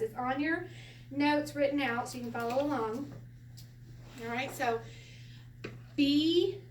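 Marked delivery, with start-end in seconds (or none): 6.0-6.6 "B" held long, rising, louder; demonstrated syllable. Shown as a demonstration. Teacher leading a sound drill, clear drawn-out B. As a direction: sing out "B" clearly for repeating. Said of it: "Everybody say it".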